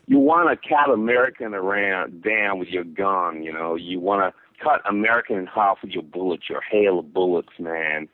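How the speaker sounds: light put-on American accent. Shown as a demonstration. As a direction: attempt an American accent for the listener. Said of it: "I'll try to make it more American for you".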